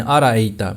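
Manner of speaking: أَرَأَيْتَ said as smooth "araayta"; أَرَأَيْتَ with the hamza swallowed; dropped hamza. Shown as a demonstration. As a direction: glide through أَرَأَيْتَ without a catch. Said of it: "اکثر لوگ اس کو أَرَأَيْتَ پڑھتے ہیں".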